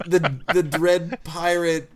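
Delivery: slow cartoonish giant voice; Dread Pirate voice.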